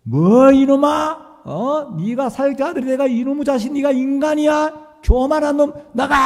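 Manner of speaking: high, loud furious scolding; expected fiery rebuke from the pastor; imagined furious pastor. Retold or imitated. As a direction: roar at the sinner as an angry old pastor. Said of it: "두 눈을 부릅뜨시고".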